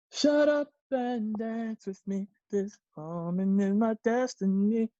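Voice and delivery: sulky slow grumbling; hammed-up pouty grumble; mock sulking. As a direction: act out being left out, sulking. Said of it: "this is what they could sometimes do".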